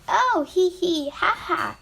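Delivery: high, spelt-out mock giggle; giggling. A narrator's reading. Wood tickled by the sandpaper, giggling in a little voice. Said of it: "This time it was giggling".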